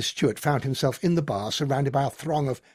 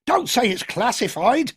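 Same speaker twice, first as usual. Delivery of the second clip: shouted jeer; 9 semitones higher, 3 dB louder than usual. A narrator's reading. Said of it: "someone else shouted".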